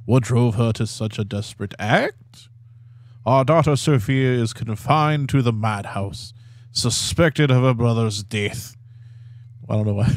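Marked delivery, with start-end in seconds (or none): 0.0-8.8 put-on Italian accent. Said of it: "your Italian accent is just spot on".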